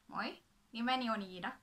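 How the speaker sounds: a quick Finnish self-introduction. Shown as a demonstration. Showing viewers she speaks Finnish, in Finnish. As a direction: say it in fluent Finnish. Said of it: "also speak a great deal of Finnish".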